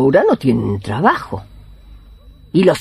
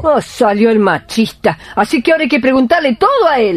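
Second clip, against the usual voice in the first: higher, fast, sarcastic; mocking jab; 8 semitones higher than usual. Healer mocking the husband as a macho, sarcastic. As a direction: tease him with mock outrage.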